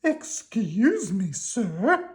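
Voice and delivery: high, slow sweet worm voice; country cousin worm, polite. Acted. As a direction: ask very politely, pitched high.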